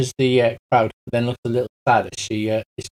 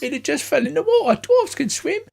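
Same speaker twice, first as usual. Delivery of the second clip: much higher worried hobbit; pining halfling, high; 11 semitones higher than usual. Acted. Kenku tells the cop about his patron.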